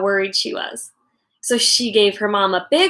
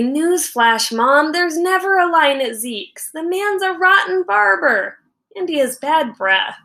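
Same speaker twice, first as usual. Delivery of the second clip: rising, higher sarcastic complaint; sarcastic kid; 6 semitones higher than usual. Acted. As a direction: roll your eyes at mom. Boy's unsaid sarcastic retort.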